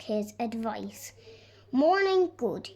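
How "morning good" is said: bright, louder cheerful hello; cheerful greeting. A narrator's reading. Shopkeeper greeting a visitor, cheerful and louder. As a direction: greet her brightly and loudly. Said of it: "he said cheerfully".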